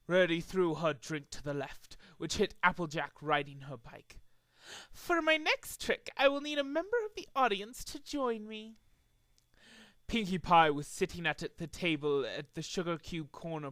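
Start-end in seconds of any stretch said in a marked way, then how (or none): 4.9-8.8 showman invitation. Acted. Trixie addressing audience.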